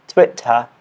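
British-style "Twitter", r dropped; British accent attempt. Shown as a demonstration. Learner repeating a challenge word, British accent attempt. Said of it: "I am learning British accent".

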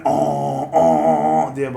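modem noise imitation. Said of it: "Sen söyle".

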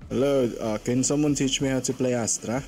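Filipino-accented English. Real, not acted. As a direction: let the Filipino accent leak through. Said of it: "I can feel my Filipino accent leaking from that one".

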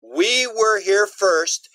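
slow, deliberate warning; slow alien warning. Retold or imitated. Aliens warning the US military, slow and deliberate. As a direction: lay down the law slowly.

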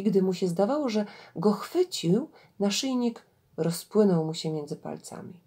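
measured storyteller reading with swelling intonation; story narration. Acted. Gawędziarka reads an Indian fable to listeners, expressive story narration. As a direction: read a fable aloud, deliberately phrased.

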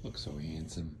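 hushed whisper of praise. Real, not acted. Whispering to the handsome dog. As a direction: breathe the compliment.

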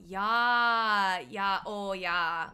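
loud, drawn-out Minnesota "ya"; Minnesotan accent. Retold or imitated. Streamer imitating how Minnesotans agree, loud Minnesota accent. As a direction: lean hard on long Minnesotan vowels. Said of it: "they do that all the time".

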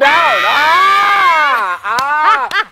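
high, drawn-out celebratory holler; real outburst over a catchphrase; loud whoop. Real, not acted. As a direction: shout it high and loud, then let it stretch into a long yell. Delighted whooping over own pun.

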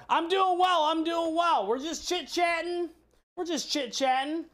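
cheery greeting. Real, not acted. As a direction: greet the viewers with a lift. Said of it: "greeting chat viewers".

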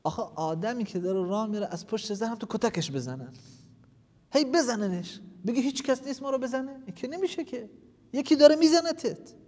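loud, high, impassioned sermon; preacher rebukes those who deny God, loudly; fiery preaching. Acted. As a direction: rouse the listeners with rising fervour. Preaching at full force.

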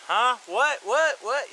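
high, confused rising whats; jolted awake and baffled; startled waking friend. Retold or imitated. Friend woken at night asking what happened, startled. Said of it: "he's just waking up".

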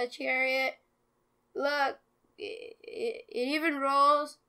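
slow, halting, nervous stutter; nervous stammering. Real, not acted. Nervously presenting the fake chariot.

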